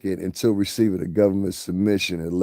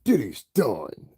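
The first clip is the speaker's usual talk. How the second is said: mock gloating; 3 semitones higher, slower than usual. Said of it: "That's how they say it".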